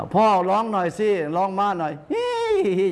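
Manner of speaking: put-on little boy urging his father-horse to neigh; playful little prince. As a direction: squeal like a giddy child on horseback.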